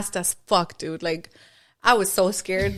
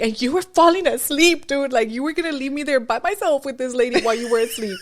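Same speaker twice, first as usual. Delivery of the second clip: mock panic, voice pitched up; panicked plea; 4 semitones higher than usual. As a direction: beg your friend not to fall asleep on you. Retelling panicked plea to friend.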